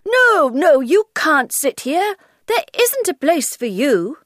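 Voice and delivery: loud, high no no; cried out. Acted. Hatter and Hare shooing Alice off, crying out. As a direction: shout them away from the table. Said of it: "they cried".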